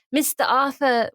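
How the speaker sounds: non-rhotic British greeting; British accent. Retold or imitated. Man approaches Arthur at theater, British accent. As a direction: say "Mister Arthur" in British, dropping both r's. Retold line, then corrected to American.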